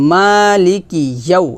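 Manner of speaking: "মালিকি" with a long first vowel; slow recited "মালিকি ইয়াউ"; one-alif stretch. Shown as a demonstration. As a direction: hold the "মা" of "মালিকি", keep the rest short. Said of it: "এক লিপ টান হবে".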